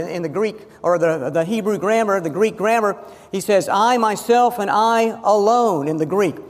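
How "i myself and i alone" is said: "I, myself" pressed, then slow "and I alone"; emphatic declaration. Shown as a demonstration. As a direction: insist on each word, slowly. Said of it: "it's a statement of emphasis".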